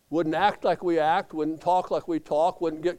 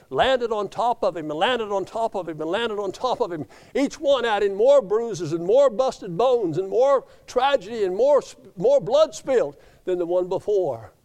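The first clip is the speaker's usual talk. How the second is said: building preacher; 4 semitones higher, 3 dB louder than usual. Acted.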